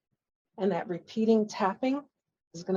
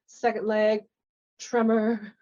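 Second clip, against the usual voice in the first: energetic coach call; 4 semitones higher, 5 dB louder, slower than usual. Shown as a demonstration. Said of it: "as fast as you can".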